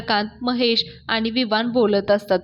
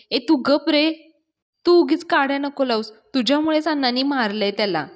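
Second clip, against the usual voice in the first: a mild, slightly higher scolding; annoyed scolding; 3 semitones higher than usual. Retold or imitated. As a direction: snap at him to shut up, lightly acted. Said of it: "Avni पाण्यावर चिडते".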